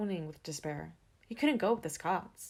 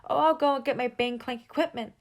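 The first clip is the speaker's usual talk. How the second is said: excited; 7 semitones higher, 10 dB louder than usual. Acted. Gus eager after being accepted.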